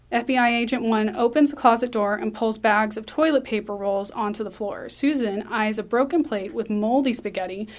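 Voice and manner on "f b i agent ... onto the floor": usual speaking voice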